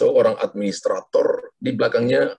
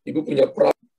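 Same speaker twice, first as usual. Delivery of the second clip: prophetic declaration. Acted. Prophetic word over caller.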